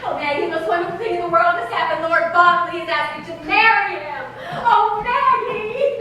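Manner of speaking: breathless excitement. Acted. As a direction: spill the news then sing her name. Announcing engagement to Maggie.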